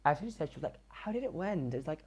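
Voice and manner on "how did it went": a hint of the higher put-on teacher voice; teacher's voice. Teacher asks the student about the test, lightly mimicked. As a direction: lightly pitch up into her odd voice. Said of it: "talked with that voice".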